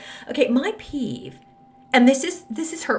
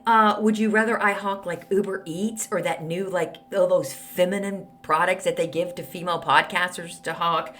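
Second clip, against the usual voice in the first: snarky reply; 2 semitones lower than usual. Retold or imitated. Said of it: "I wrote her back and said".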